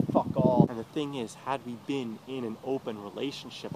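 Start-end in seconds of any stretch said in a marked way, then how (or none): 0.1-0.7 high, loud yelled curse; sudden yell. Real, not acted. Venting about his ex to camera, a sudden high yelled curse. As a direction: spit it out in a sudden burst. Furious rant about her.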